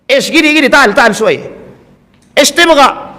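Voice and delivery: light imitation of a street vendor calling out; a hint of a casual Arab bargaining voice; casual Arab market talk. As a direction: toss it off like everyday haggling in a Mecca market. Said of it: "Itu bukan bahasa Arab resmi".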